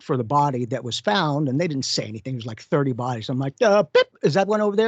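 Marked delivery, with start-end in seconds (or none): 3.6-4.9 retold curious question. Retold asking coroner staff.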